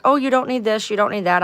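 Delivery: high, dismissive imitation; mocking advice. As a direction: mimic their know-it-all advice. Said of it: "they were like".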